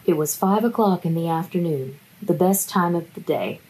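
dramatic book reading; reading aloud. Shown as a demonstration. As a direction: read it with mock gravity. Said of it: "I've gotta read you".

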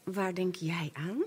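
hushed whispered question; whispering. Acted. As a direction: whisper it close.

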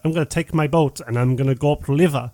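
quick, badly faked French accent; attempted French accent. Film fan quotes Van Damme's river line, attempted French accent. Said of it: "I can't do the accent".

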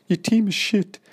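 very high, loud strange coach voice; high-pitched voice. Retold or imitated. Coach insulting the speaker's team, high squeaky voice. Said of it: "Just like this".

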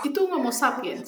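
high, laughing mock retort; laughing comeback. Friend jokes back at a child's insult, laughing. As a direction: toss the joke back through laughter.

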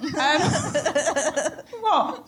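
speaking round a chocolate; chewing while talking; mouth full. Real, not acted. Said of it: "Sounds great with your mouth full".

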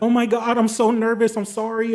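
mock the flustered guy saying sorry; nervous apology. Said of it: "And he's like".

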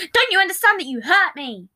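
loud, high hurt outburst; shouting. A narrator's reading. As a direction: shout it as a wounded plea. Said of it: "Patton shouted".

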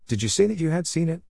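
high, eager questioning voice; lightly voiced curious man. Harry questions old Mary.

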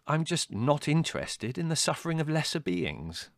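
high, lofty disdain; withering. A narrator's reading. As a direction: look down on everyone else. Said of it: "said Larry witheringly".

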